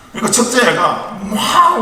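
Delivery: chuckling through the words; fighting back laughter as the story unfolds; tickled, half-laughing narration. Real, not acted. Laughing while telling the story.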